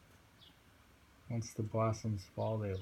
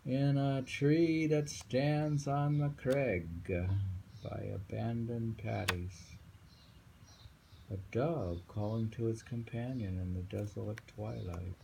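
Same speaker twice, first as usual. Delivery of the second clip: poem reading; 2 semitones higher than usual. Acted. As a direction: read out like a recital, stretching each word.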